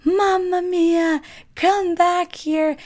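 slow, high Italian accent mock shout; mock Italian yelling. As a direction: ham up an Italian shopkeeper calling after them. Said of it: "like, yelling at us".

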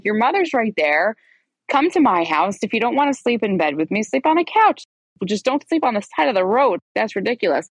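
acted-out pleading, pitch swooping up; retold exasperation. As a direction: argue it as if it's obvious. Retells exasperated pleading with him.

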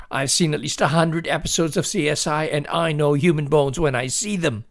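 indignant shout. A narrator's reading. Boy insisting to his doubting dad, indignant shout. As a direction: rattle it off insistently. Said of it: "Billy shouted".

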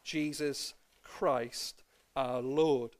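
measured, solemn Bible reading to the congregation; formal church reading of Romans; scripture reading. Acted. Bible passage read aloud.

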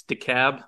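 DeKalb said "dee-CAB"; local pronunciation. Shown as a demonstration. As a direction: rhyme the end of DeKalb with cab. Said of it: "not, not DeKalb or DeKalb".

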